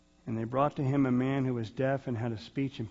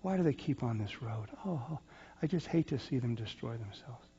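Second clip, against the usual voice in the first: mild sorrowful sigh; 6 dB quieter than usual. Retold or imitated. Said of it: "and you say".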